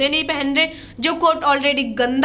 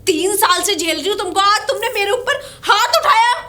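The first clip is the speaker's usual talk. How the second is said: raised, indignant accusation; angry protest; 4 semitones higher than usual. Acted. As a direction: protest the slap, voice climbing. Wife protests being slapped in quarrel.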